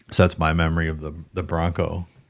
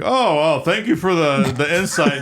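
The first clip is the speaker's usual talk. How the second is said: higher-pitched imitation of an earnest news anchor; Peter Jennings; 8 semitones higher, 3 dB louder than usual. Anchor thanking a prank caller, mock broadcast voice. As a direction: play the anchor politely taken in, pitched up. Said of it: "Peter Jennings is like".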